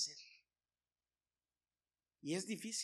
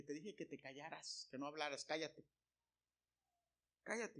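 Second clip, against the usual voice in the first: much softer, urgent hush; hushed scolding; 10 dB quieter than usual. Retold or imitated. Speaker hushing his coworker in front of the boss, softer urgent scolding. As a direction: hiss him quiet under your breath.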